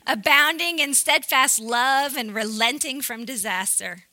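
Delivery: loud, play-acted indignation; mock angry. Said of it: "He's, like, mad about it".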